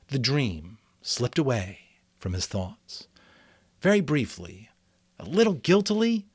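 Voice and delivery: steady read-aloud narration with lightly voiced characters; story narration. A narrator's reading. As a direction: read the chapter to the class. Reads novel aloud in class.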